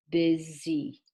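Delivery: busy said slowly, both syllables, busy split clearly as BU-sy; careful teacher model of busy; clear two-syllable demo. Shown as a demonstration. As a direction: let them hear both syllables of busy. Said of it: "Can you hear the two syllables?".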